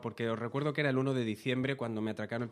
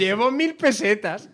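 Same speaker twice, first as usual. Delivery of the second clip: higher and louder, slowed, a hammed-up plea; mock pleading; 7 semitones higher, 10 dB louder, slower than usual. Victim answers the mugger, hammed-up pleading.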